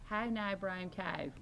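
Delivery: put-on "Nye Brown Cow" drawn out slowly in the local accent; slow, obliging recital of "Nye Brown Cow"; accent party trick. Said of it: "they would make us call their friends and go".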